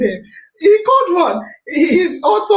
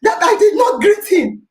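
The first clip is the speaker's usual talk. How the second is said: raised, indignant retelling of his shouting; higher, mock angry shout; retold shouting; 4 semitones higher than usual. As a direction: mimic him yelling the complaint. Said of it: "He was shouting".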